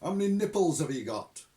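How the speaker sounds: loud impatient sergeant bark; testy. A narrator's reading. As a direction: bark it testily. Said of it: "said the voice testily".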